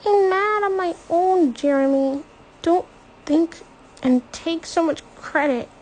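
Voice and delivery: high and loud, nose blocked from crying; snapping back through tears; stuffed-up tearful defiance. A narrator's reading. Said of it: "Her nose is stuffed up".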